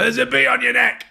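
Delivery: high squeal an octave up; squeaky panic. Acted. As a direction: shriek it like a cartoon in panic. Panicked bee warning.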